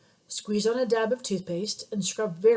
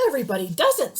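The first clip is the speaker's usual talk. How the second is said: angry voice; 2 semitones higher, 5 dB louder, faster than usual. Acted. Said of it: "said the angry voice".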